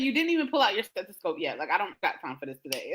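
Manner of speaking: quick, fading sassy retort; sassy brush-off. Retold or imitated. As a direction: brush the doctor off fast. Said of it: "this is how I'm talking to her".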